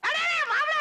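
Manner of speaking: loud, high delighted call; excited greeting. Acted. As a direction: hail him like a long-lost friend. Uncle greets son-in-law excitedly. (உற்சாகமான உரத்த வரவேற்பு)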